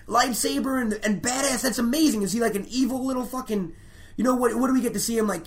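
retold fan losing it with joy; giddy fanboy excitement. Comic telling a podcast friend about Patton, hyped fan squeal. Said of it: "And Patton's like".

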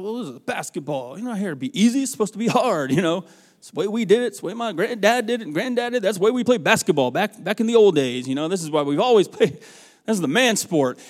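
mock bluster of a proud coach defending tradition; indignant old-school coach. Coach protesting in his head that basketball is hard, indignant.

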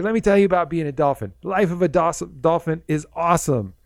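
cheerful dolphin spirit greeting a visitor; super happy dolphin. Retold or imitated. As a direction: beam like the happiest creature alive. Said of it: "happiest spirit".

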